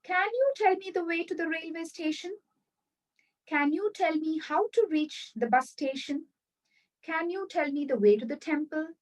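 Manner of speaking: "Can you tell me the way to the railway station?" as a rising, polite question. Shown as a demonstration. Teacher shows students the polite way to ask. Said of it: "replace it with this statement starting with can".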